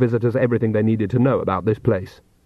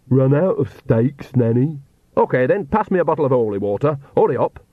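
Igor voice; 4 semitones higher than usual. Acted. Igor answers Nanny in pieces.

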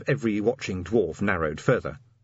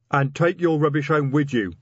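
loud, higher-pitched troll bellow; troll roar; 7 semitones higher, 5 dB louder than usual. A narrator's reading. Troll officer sends the messenger packing, roaring. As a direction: roar him out of the door. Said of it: "Detritus roared".

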